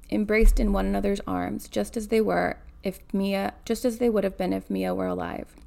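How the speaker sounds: measured read-aloud narration; story narration. A narrator's reading. Reader telling of a granddaughter by the bed, story narration. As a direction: read the novel out evenly.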